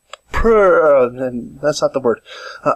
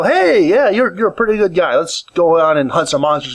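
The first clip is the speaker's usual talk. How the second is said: heartfelt. Retold or imitated. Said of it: "the heartfelt".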